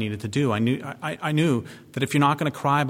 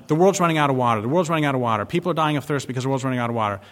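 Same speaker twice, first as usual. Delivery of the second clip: mocking the press; faster than usual. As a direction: parrot the media's panic with scorn. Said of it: "we hear all the time".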